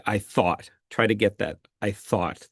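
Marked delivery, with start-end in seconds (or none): 0.1-0.7 "thought" with a clear TH, tongue between teeth; clear th sound. Shown as a demonstration. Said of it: "the T H sound there". 1.8-2.5 "thought" with a clear TH, tongue between teeth; clear th sound. Shown as a demonstration. Coach modelling "thought" with a soft TH for a student. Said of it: "the T H sound there".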